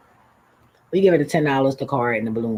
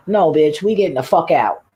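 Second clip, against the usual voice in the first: mock shout; 4 semitones higher, 5 dB louder than usual. Retold refusing to stay in car.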